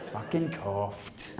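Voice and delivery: slow, soft resentful grumble; hard done by. Retold or imitated. Comedian repeating the woman's answer, slow aggrieved grumble. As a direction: drag it out, aggrieved. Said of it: "someone so hard done by".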